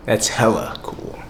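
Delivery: slow, stretched mock local slang; lightly mocked Las Vegas talk; imitated local slang. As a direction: draw out HELLA like a local. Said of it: "Here they say".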